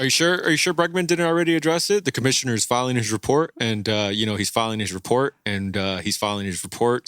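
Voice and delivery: a hint of a player's deflecting, repetitive interview voice; Bregman. Co-host posing as the player answering questions, lightly voiced impersonation. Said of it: "that was a spot on Bregman, uh, impersonation".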